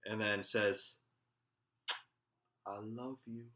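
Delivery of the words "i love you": softer, hushed imitation of a girl in love; soft love declaration. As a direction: murmur it like a sweetheart. Imagined girl declares love from car.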